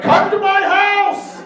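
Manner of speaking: mock seductive call. Edward winking at Deli, a loud hammed-up invitation. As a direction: drag out each word as a creepy invitation. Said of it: "he's like".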